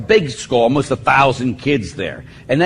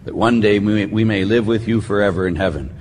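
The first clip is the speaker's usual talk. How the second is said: opening prayer; 2 semitones lower than usual. Real, not acted. Priest opening his talk with prayer, prayerful. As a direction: lead the congregation in reverent prayer.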